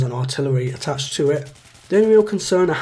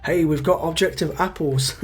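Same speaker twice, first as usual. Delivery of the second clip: bland synthetic announcer voice; AI woman voice. Retold or imitated. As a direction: read it like a flat computer voiceover. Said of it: "an A I sounding woman telling me".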